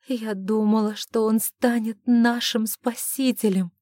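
usual speaking voice

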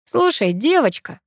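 lightly condescending come-on; cheeky, overfamiliar. A narrator's reading. Guy accosts a girl at a party, cheeky and overfamiliar. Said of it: "развязно начал парень".

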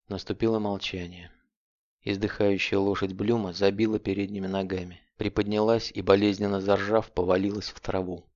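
usual speaking voice

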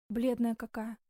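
ordinary delivery

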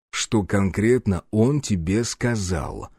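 slow, weighty question; pressing, insistent. A narrator's reading. Man questions the scared girl, pressing. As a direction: lean on each word as you question. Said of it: "С нажимом спросил я".

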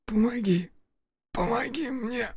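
high, fading wounded cry; plead, breath running out; desperate plea. Acted. Wounded Timka begs for help.

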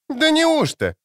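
high, sharp near-shout of disbelief; almost scream it in disbelief. A narrator's reading. Ciri to Avallac'h, nearly screaming in disbelief. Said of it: "чуть не закричала она".

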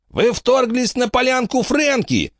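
slow, high-pitched character voice; explanatory accusation. A narrator's reading. Dogface explaining the crime, high and slow. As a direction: spell it out high and drawn out. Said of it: "пояснил пёсья морда".

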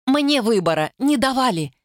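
bitter, high retort; hateful. A narrator's reading. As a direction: cut it off with hatred. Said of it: "С ненавистью отрезала".

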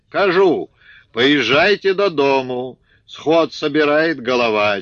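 high loud Ukrainian-tinged shout; yelling from horseback. Acted. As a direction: bellow the news to the whole field. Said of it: "заорал".

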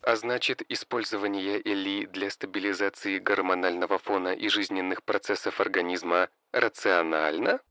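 quiet, sarcastic machine voice; snide AI voice. Acted. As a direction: needle him, dry and sly. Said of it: "съехидничал Д И И". (ехидный голос ИИ)

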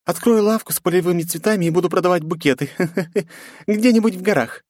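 mocking laugh. A narrator's reading. Princess mocks father.

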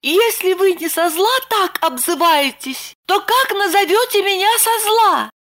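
put-on high pouting young woman; Lipochka offended. A narrator's reading. Lipochka pouting at Roman's insults, high voice. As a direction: pout and reproach him. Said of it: "обиженно надула губки".

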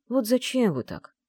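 ordinary delivery, nothing marked

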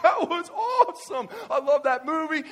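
high, loud, slowed gushing with a laugh; thrilled. Retold or imitated. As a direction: rave about the movie like a fan. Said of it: "And I would be like".

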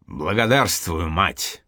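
slow, exhaled thanks after a full meal; breathed out thanks. Acted. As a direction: let it out on a satisfied breath. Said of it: "выдохнул он". (сытый выдох, неспешно)

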